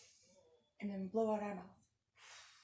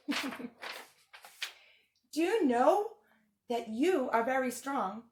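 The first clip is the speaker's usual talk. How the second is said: lightly voiced furry blue monster, fretful and pleading; Grover voice; 3 semitones higher, 7 dB louder than usual. Teacher reading the book to kids as a worried Grover. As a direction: read it as a nervous puppet monster begging the kids.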